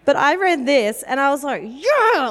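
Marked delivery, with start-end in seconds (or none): 1.6-2.3 high-pitched rousing cheer; fired up. Retold or imitated. Retelling her reaction to reading Revelation, fired up. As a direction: whoop it like a battle cry. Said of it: "it got me fired up".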